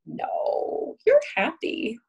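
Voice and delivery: dismissive denial. Retold or imitated. Therapist mock-contradicting a client's anger, light and dismissive. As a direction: brush the feeling off as if correcting them. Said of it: "and me saying".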